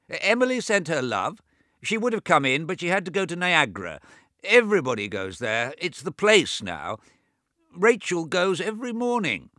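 put-on high, loud old man raising his voice over deafness; a fussy deaf old man talking too loud; deaf old brother. Deaf old James to his bedridden twin, high and loud. James gossips about Emily.

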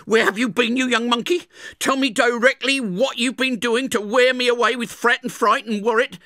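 high, loud furious scold; scolding sister. Acted. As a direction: tear into the boy for being out. Angry sister scolds Pip.

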